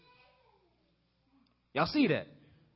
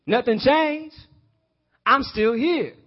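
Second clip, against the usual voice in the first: "Nothing changed" lifted high and bright; mildly thrilled relief; excited Eve; 3 semitones higher, slower than usual. Acted. Eve after eating the fruit, mildly excited. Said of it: "And then she ate it".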